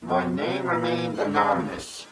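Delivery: disguised deep voice. Pretend. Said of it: "I G-majored my voice".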